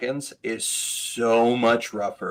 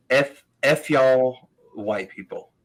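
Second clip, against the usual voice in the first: imitated heckler; 4 dB louder, slower than usual. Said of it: "he goes".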